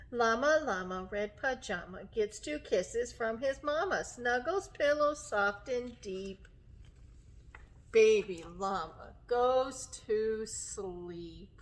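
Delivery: gentle rhyme winding down slowly; bedtime storybook reading. Acted. Teacher reads llama off to sleep, gentle bedtime reading. Reads picture book to children.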